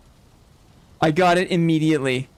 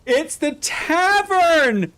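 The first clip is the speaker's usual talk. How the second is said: awed; 8 semitones higher, much slower than usual. Real, not acted. Awed recognition, drawn out.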